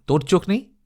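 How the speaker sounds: understated disdain from the cart driver; scornful retort. A narrator's reading. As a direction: throw it back with mild contempt. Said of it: "ততোধিক অবজ্ঞা প্রকাশ করে বলে".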